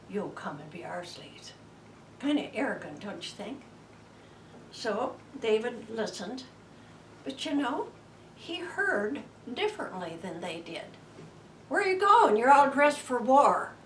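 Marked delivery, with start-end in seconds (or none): 0.1-1.5 unvoiced, soft threat; menacing whisper. Giant's threat in retelling. 11.7-13.7 higher and louder, eager question; excited call. Retold or imitated. David calling to soldiers.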